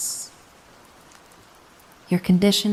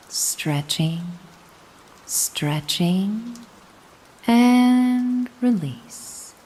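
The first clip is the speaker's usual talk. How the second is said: drawn-out release; 7 semitones higher, much slower than usual. Acted. Guided stretch counting out.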